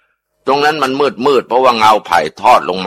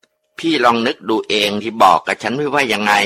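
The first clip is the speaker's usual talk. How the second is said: ghost voice; 2 semitones higher than usual. Acted. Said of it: "เสียงป้าจำปีก็พูดออกมาอีก".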